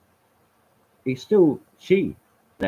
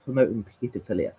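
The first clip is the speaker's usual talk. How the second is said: mocking objector; 3 semitones higher than usual. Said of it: "gets on the high horse and says".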